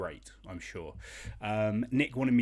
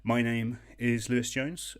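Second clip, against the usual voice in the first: hammed-up game-show host, louder and higher; mock showman host; 3 semitones higher, 5 dB louder than usual. Host greeting quiz players, hammed-up showman. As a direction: puff it up like a TV host. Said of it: "grand mock host welcome".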